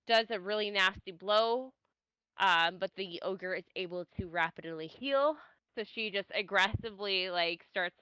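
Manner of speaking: muffled, mic covered by a hand; finger over the mic. Real, not acted. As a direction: talk with a hand over the microphone. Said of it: "It sounds like you're covering your microphone".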